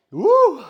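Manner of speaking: high loud sneeze burst. Real, not acted. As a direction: sneeze hard. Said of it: "I got the sneezes".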